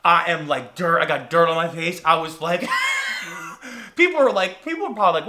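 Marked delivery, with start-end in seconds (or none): 2.7-3.9 high wheezing gasp; acted gasping. Sweaty tourist just out of the tunnel, wheezing. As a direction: suck in air noisily. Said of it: "I am just gasping for air".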